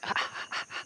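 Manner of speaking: breathy panting ape laugh; imitated gorilla laugh. Shown as a demonstration. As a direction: huff out a soundless ape laugh. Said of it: "doing the ... like that".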